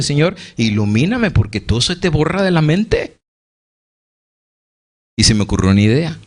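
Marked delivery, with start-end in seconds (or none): 0.0-3.2 pleading. Retold or imitated. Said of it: "Yo pidiéndole".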